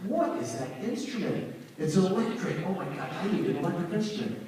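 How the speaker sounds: high-pitched retold boyish wonder; awestruck excitement. Twelve-year-old seeing electric guitar on TV, awestruck. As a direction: marvel in a high voice, building to an urgent rush. Acts out his awestruck younger self.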